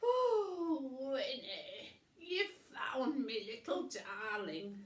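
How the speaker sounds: loud gushing sister; loud doting coo; Wilma voice. A narrator's reading. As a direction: gush over the dog. Wilma cooing over dog.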